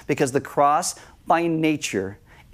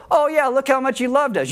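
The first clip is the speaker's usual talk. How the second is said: much higher, sing-song mock praise; mock admiration; 10 semitones higher than usual. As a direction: parody someone gushing over a pointless sacrifice. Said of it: "You don't go".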